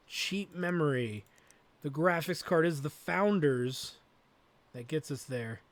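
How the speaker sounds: normal talking voice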